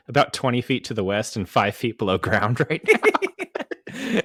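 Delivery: flat robotic Megan voice. Retold or imitated. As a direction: mimic the robot doll. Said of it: "she's like".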